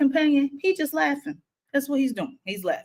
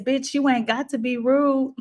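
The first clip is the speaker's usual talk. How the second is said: put-on drunk lady snapping; 6 semitones higher than usual. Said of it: "she says".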